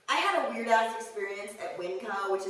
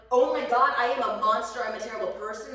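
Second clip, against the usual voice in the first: panicked; 5 dB louder than usual. Retold or imitated. Her child self panicking.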